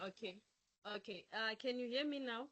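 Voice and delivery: faint voice over a bad connection; quiet, distant call audio; barely audible. Real, not acted. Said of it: "I can, but it's, uh, very faint".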